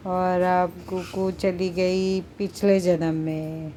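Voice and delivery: slow, drawn-out hypnotist voice; mock hypnotist. Mother pretends to hypnotize her cat, slow and lulling. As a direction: lull the cat as if putting it under.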